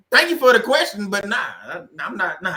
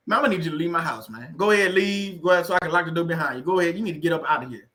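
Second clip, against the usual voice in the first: 1 mock eviction; 3 semitones lower than usual. Kicking visitor out of house.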